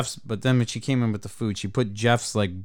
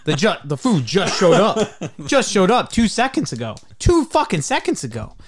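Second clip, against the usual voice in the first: laughing disbelief; 7 semitones higher, 4 dB louder than usual. Real, not acted. Laughing, incredulous.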